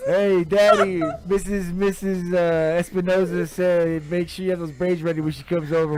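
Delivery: put-on kid voice. Kid voiced telling her dad.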